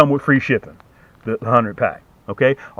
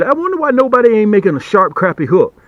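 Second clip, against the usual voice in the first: quoting a video complainer; 6 semitones higher than usual. Retold or imitated. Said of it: "they said".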